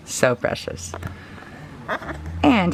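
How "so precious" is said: whispered aside. Real, not acted. Doting on baby doll.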